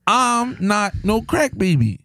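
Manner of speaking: high, heated denial; indignant protest. Real, not acted. Indignantly denying being a crack baby.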